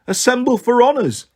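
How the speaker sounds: high-pitched ceremonial call; suppressed amusement. A narrator's reading. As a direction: call out an order, holding back a laugh. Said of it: "as if she were trying not to laugh".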